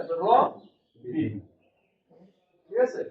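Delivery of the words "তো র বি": "র" and "বি" said as two separate beats with a pause between; syllables split apart. Shown as a demonstration. Teacher splitting a word into syllables for students, pausing. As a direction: break রবিন into র, then বি. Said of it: "একসাথে উচ্চারণ বলছি না".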